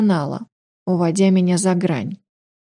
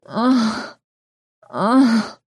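female moaning; 3 semitones higher than usual. A narrator's reading. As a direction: voice her moans, rising. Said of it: "стонала она".

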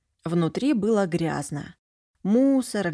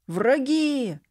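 put-on a boy's alarmed cry, higher; loud shout; 6 semitones higher than usual. Boy shouting on seeing a stranger, mildly loud. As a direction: yell a warning. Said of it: "громко закричал".

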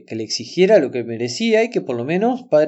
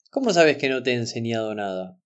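understated, sober retold question; mildly stern, level challenge; serious question; 3 semitones lower than usual. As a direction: ask it seriously, without raising the voice. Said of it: "Se lo preguntó seriamente".

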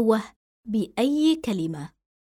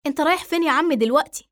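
higher, louder, fast urgent call; anxious call; 5 semitones higher, 4 dB louder, faster than usual. Acted. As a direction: call after him before he leaves. Running after him calling. (نداء قلق وسريع)

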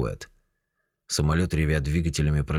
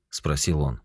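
plain reading voice

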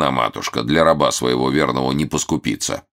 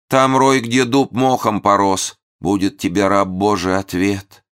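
prophetic holy fool; 7 semitones higher than usual. A narrator's reading.

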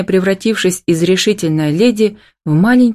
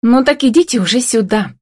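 higher, bossy order; commanding; 7 semitones higher than usual. A narrator's reading. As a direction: command them to come over. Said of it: "скомандовала Ева". (повелительно, с нажимом)

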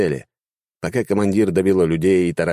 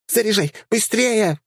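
high squeaky panicked yell; gunner yelling; slower than usual. A narrator's reading. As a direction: shriek it in a high dryad voice. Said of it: "кричала наводчица".

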